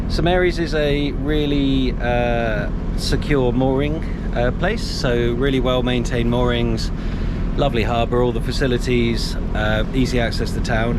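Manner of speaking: slightly breathless, just after a climb; out of breath. Real, not acted. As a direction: talk while still out of breath. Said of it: "sorry, I'm out of breath".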